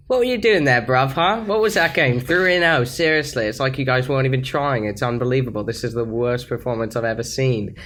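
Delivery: demeaning and stern. Retold or imitated. Imitating stranger berating two losing players, stern and demeaning. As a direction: dress them down with scornful authority. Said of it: "most demeaning and powerful and stern and cool voice".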